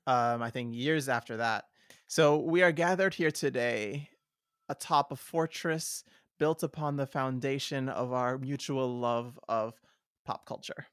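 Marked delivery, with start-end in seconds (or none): 2.1-10.9 mock-grand ceremonial address; formal speech. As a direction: speak like opening a solemn gathering. Mock ceremonial podcast opening.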